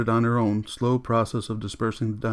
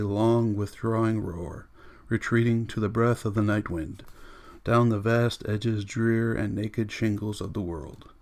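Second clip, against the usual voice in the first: poem reading. A narrator's reading. Montague reading a poem aloud to the women, solemn. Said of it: "began to read in a low, stumbling voice".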